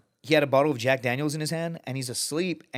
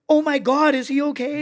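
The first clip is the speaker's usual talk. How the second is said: high, louder imitated alarm; mock panic; 13 semitones higher, 8 dB louder than usual. Mocking backpackers who think his buddy is dead, high alarm. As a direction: squeal it like startled hippies.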